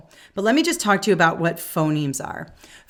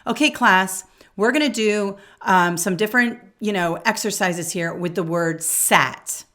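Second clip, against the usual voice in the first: teacher addressing class. Shown as a demonstration. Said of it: "here's an example of, like, a phonemic awareness activity".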